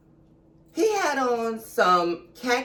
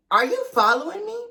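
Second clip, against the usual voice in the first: alarmed question; 7 semitones higher, faster than usual. Retold or imitated. Confronting the man following her.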